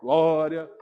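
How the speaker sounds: drawn-out, showy praying; mock pious prayer. Preacher mimics someone posing while praying, mock pious. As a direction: pray for show, stretching each word. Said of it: "que ele faça uma pose".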